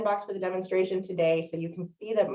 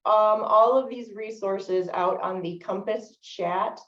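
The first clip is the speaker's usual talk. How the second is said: slow, slightly raised lecture voice; speaking up for listeners. Real, not acted. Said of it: "I will try to speak up".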